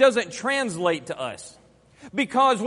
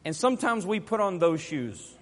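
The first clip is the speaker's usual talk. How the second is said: normal talking voice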